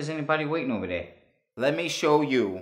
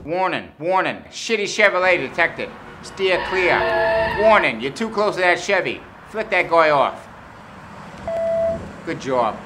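alarm announcement; 3 semitones higher, 4 dB louder than usual. Acted. App voicing a Chevy alert.

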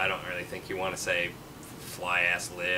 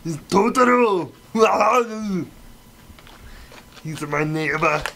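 high, slow, loud gushing; excited shout; 10 semitones higher, 9 dB louder, slower than usual. Pretend. Showing off the toy, a high, slow excited cry. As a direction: announce it like a thrilled kid.

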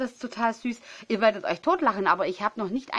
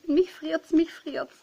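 mock whiny complaint; 6 semitones higher, slower than usual. Real, not acted. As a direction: repeat it higher, a playful whine. Repeats that she is freezing.

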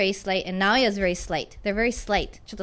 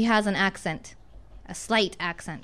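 slight said slower and softer; contrastive example; 4 semitones lower, 4 dB quieter, slower than usual. Shown as a demonstration. Teacher contrasts an accent with a slight accent. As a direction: lean gently on slight accent. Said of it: "という違い".

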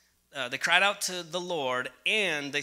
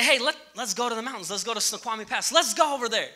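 raised pitch, quick and keen; eager suggestion; 4 semitones higher, faster than usual. Retold or imitated. Preacher acts out himself proposing a mountain trip, eagerly. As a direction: act out an eager invitation to go.

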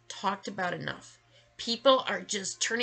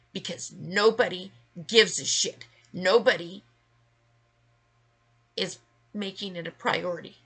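angry rant; 3 dB louder than usual. Real, not acted. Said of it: "Rant over".

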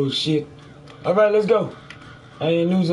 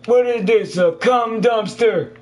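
disgusted shock; 6 semitones higher than usual. Real, not acted. Player reacting to a filthy room, disgusted shock. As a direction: exclaim in appalled disbelief.

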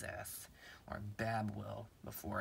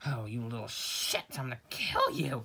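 angry shout; 6 dB louder than usual. Acted. Hit again.

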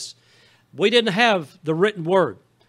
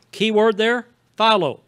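preacher leaning on follow; stress on follow; 4 semitones higher, 5 dB louder than usual. Shown as a demonstration. Pastor to congregation, hammering follow. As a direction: punch the word follow, loud and high. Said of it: "Key word is follow".

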